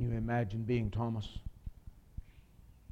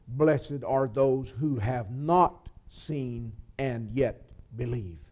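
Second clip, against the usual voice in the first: very slow, weighty reading; solemn scripture; much slower than usual. Acted. Preacher quoting Jesus to the congregation, very slow and solemn. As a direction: lay each word down like a blessing.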